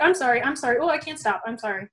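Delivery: mock compulsive sorry, popping out in bursts; imitating her own nervous reflex apologising; hiccuping apologies. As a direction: let the apologies spill out like hiccups, half-mocking. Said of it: "It's almost kind of like a hiccup".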